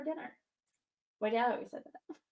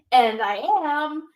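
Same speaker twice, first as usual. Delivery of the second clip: slow, louder mock-menacing wrestler line; imitating wrestler's menace; 3 semitones higher, 12 dB louder, much slower than usual. Fan retelling Drew's promo, slow and loud mock menace. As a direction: drag it out slowly and loud, like a threat. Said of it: "the way he said it".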